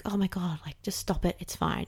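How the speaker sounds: whispered, impatient brush-off; exasperated whisper. Pretend. Fed-up parent hushing a scared kid, whispered. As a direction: hiss it under your breath like a fed-up parent.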